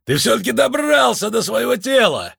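высокий восторженный голос чудака; восторженный мистик, тон высоко вверх; чудаковатый Лунветр. A narrator's reading. Лунветр радуется встрече. (Лунветр в восторге кричит двадцать два, высоким голосом)

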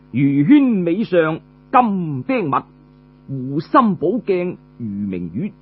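slow, measured verse chant; poem recital. Acted. Storyteller recites a praise poem in slow measured verse. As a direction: recite each line slowly like verse.

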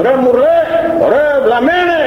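a hint of villagers heckling a madman; mock crowd shout. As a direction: jeer it like the scoffing crowd. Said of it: "Του φώναζε ο κόσμος".

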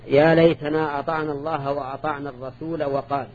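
"الرسول وقال" joined as ar-rasoola wa-qaal; short final "a" on "الرسول", straight into "وقال"; alif dropped in joining. Shown as a demonstration. Teacher testing students on the readings, "الرسول" joined without long alif. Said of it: "هذه على قراءتين".

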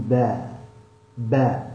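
drawn-out با with the mouth open, lips unrounded; open fatha. Shown as a demonstration. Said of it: "تظهر الابتسامة اللي هي على أعلى الفم". (با بفتحة واضحة مع ابتسامة)

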